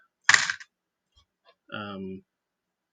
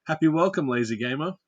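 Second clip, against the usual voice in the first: cheery shout-out; 4 semitones higher, 6 dB louder than usual. Shown as a demonstration. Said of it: "I still owe, uh, Lazy Gamer a happy welcome".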